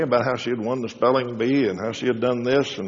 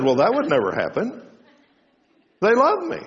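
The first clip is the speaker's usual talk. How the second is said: put-on confident young girl; 8 semitones higher than usual. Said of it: "She said".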